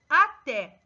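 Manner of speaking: até with a loud final TÉ; stress on last syllable. Shown as a demonstration. Teacher showing pupils an oxytone word, stress on final TÉ. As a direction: punch the second syllable of até. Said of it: "última sílaba tônica".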